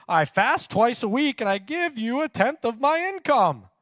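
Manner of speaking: smooth sales-pitch delivery; salesman voice. Acted. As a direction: pitch the prayer like a salesman selling himself. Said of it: "I put on my salesman voice for that".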